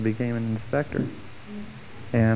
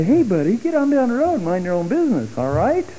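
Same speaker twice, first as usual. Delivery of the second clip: higher, pushy mock telling-off; gruff brush-off; 11 semitones higher than usual. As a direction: shoo the nosy guy away, half in jest. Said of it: "And I wanted to say".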